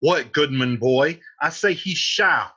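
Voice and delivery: loud, slowed, commanding; angry Capulet. Acted. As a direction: uncle overruling his nephew. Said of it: "Capulet says".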